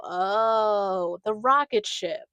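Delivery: loud, drawn-out mock "oh"; dawning realization. Podcaster imitating listeners hearing the episode, mock dawning realization. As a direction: play the listener finally getting it.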